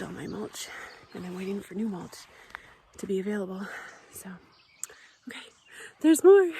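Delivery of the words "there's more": whisper. Real, not acted. Teasing more garden to show.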